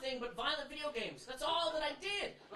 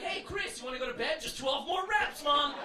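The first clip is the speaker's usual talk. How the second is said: put-on kid talking back; 4 dB louder than usual. Kid mocks mom, acted scene.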